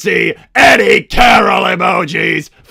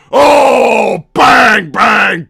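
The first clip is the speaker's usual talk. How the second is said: gleeful bang; 4 semitones higher, 6 dB louder, much slower than usual. Real, not acted. Banning spammers.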